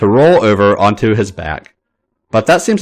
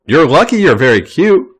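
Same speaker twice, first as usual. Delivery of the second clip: grumbling; 6 semitones higher, 4 dB louder than usual. A narrator's reading. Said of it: "Finn grumbles".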